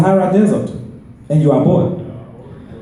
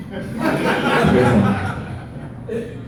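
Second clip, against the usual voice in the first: whispered plea; 5 semitones lower, 7 dB quieter, much slower than usual. Acted. Repeated plea, whispered laughing.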